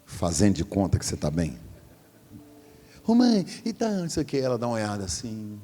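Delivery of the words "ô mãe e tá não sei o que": high, forced breezy hello; fake-cheerful child. Grown child arriving at mom's house faking being fine, high and breezy. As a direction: pretend all is well to mom.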